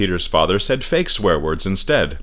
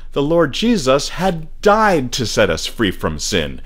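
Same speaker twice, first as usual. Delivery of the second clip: slow, higher, incredulous preaching; preachy rhetoric; 7 semitones higher, slower than usual. A narrator's reading. Church people refusing fun, slow preachy disbelief. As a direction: stretch it out with righteous disbelief.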